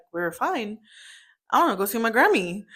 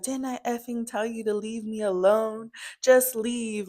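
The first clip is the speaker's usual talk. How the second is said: higher-pitched mock yell, held back; retold screaming; 4 semitones higher than usual. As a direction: imitate an angry scream without shouting it. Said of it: "this is all screaming".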